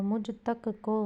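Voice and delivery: मुझ तक को slowly, word by word; separated words. Shown as a demonstration. Teacher giving the accepted form, slow and separated. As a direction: space out मुझ तक को. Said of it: "होगा".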